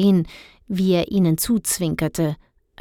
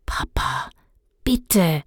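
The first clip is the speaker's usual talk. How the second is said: urging; slower than usual. Acted. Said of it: "drängte Dennis".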